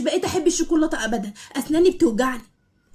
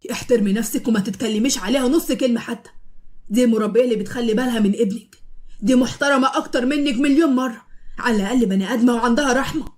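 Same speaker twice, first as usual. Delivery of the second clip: angry. Acted. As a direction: bite back hard to protect her name. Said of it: "بكل عصبيه".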